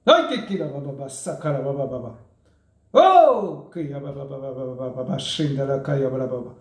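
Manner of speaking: fast murmured glossolalia babble; speaking in tongues. Real, not acted. Speaking in tongues after prayer.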